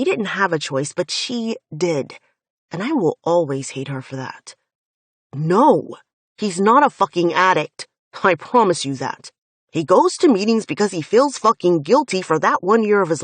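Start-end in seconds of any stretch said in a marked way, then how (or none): 5.3-13.2 loud, heated promise; angry insistence. Acted. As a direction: swear to it with raised anger. Finn insists angrily again.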